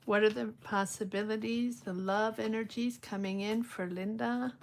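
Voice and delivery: hushed, meditative tarot query; card-reading invocation. Real, not acted. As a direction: ask the cards quietly, as if focusing inward. Intones questions to the cards.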